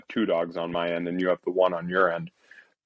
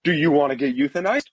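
affectionate; 4 semitones higher, faster than usual. Retold or imitated. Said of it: "very affectionately and lovingly ask".

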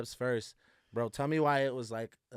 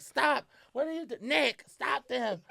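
mom yelling; 12 semitones higher, slower than usual. Retold or imitated. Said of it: "She's like".

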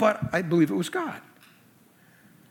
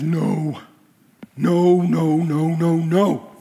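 loud, emphatic string of no's; firm refusal; 2 semitones lower, 4 dB louder, much slower than usual. Retold or imitated. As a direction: shut every request down hard. Vowing to refuse every request.

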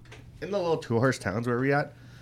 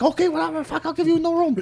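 a hammed-up Chinese accent, much higher; the motel owner giving in, in a put-on Chinese accent; mock Chinese accent; faster than usual. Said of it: "Using the accent".

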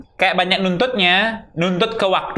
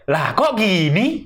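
baffled; much slower than usual. Retold or imitated. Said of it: "yang kayak".

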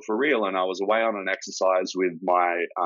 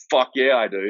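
a burst of eager excitement, pitched up and louder; eager yes; 5 semitones higher, 4 dB louder than usual. Retold or imitated. Soldier jumps at the chance to deploy, eager excited yes. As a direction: blurt it out like you've just been handed your dream job. Retelling eager reply to captain.

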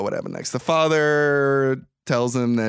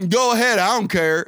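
higher, dismissive comeback; defiant teen; 6 semitones higher than usual. Retold or imitated. Defiant son answering his dad's threat to send him back, dismissive. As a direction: brush dad off defiantly.

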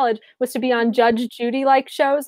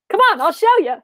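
mock cheerful guide; 7 semitones higher, 5 dB louder than usual. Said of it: "mocking show guest, higher, louder".

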